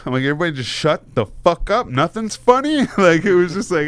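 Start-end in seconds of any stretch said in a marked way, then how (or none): 0.2-2.9 high-pitched mock scolding; trying to be serious. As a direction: imitate pleading for order while everyone giggles. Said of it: "I'm trying to be so serious".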